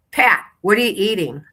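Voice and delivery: high, eager nosy voice; nosy shopper. Retold or imitated. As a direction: pester like a curious neighbor. Nosy shoppers at grocery store.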